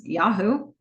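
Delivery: YAHOO rising at the end; questioning Yahoo. Retold or imitated. Donna querying Tripp's answer, questioning tone. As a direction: echo YAHOO back as a question. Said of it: "Yahoo with a question mark".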